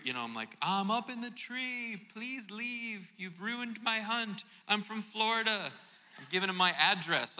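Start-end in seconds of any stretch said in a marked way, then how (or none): 0.6-5.7 high, slow mock yelling from the tree stand; retold yell. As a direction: plead up out of the tree, stretching the words. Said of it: "I had to yell at that point".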